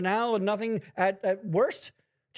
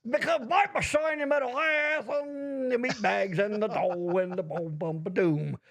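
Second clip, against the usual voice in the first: Bender doing Cosby; 3 semitones higher than usual. Pretend. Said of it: "if Bender was trying to do an impression".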